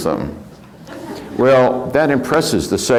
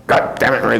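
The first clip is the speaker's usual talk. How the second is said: mock-angry outburst, pitched up; mad grandfather; 4 semitones higher, faster than usual. Grandfather cursing at his wife, mildly hammed-up anger. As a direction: imitate grandpa starting to curse a blue streak. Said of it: "then he'd get mad".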